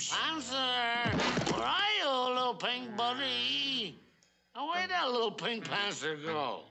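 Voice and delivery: high-pitched tipsy holler; calling out. Acted. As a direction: call for your lost buddy in a tipsy singsong. Calling for the missing panther.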